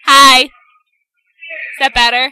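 distant, hollow phone line; like talking down a long tunnel; echoing tunnel. Real, not acted. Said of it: "talking through a tunnel far away".

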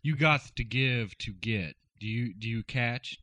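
lightly lisping smooth radio host; a hint of lisp, smooth and easy; Ladies' Man lisp. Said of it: "my man of a hundred voices".

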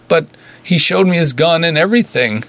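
high, tearful cry of sorry; blurting it out through tears; weeping apology. A narrator's reading. Nurse weeping to her patient, high tearful cry.

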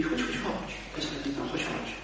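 soft, unvoiced luring whisper from the devil. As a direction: beckon in a whisper, drawing him in. (szept diabła wabiącego człowieka do siebie)

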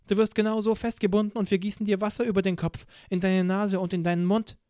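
a clipped-polite demand from a torturer; cold interrogator. Acted. Interrogator describes waterboarding.

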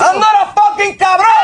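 angry shout. Acted. Husband fights with his wife.

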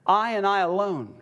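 both "I"s stressed, then "alone"; emphatic I. Shown as a demonstration. Preacher stressing Jesus' exclusive claim, emphatic on "I". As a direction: lean firmly on each "I" in "I and I alone". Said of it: "is emphatic".

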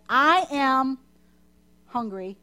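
loud, drawn-out whiny "I am" lines; mock complaining Israelites. Pastor voicing the grumbling Israelites, mock whiny. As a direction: ham up the grumbling wanderers. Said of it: "complaining about the lack of food".

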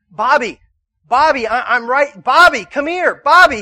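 loud, high, urgent shouts; calling out. Acted. God searching through people for Bobby, calling out urgently. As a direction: shout for someone lost in a crowd.

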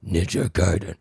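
a tentative death-metal growl. Pretend. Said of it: "like a death metal?".

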